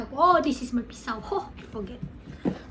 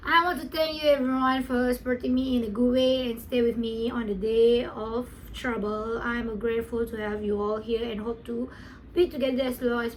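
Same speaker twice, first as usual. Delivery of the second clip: reading aloud. Real, not acted. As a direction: read the message out carefully. Reads the thank-you card aloud.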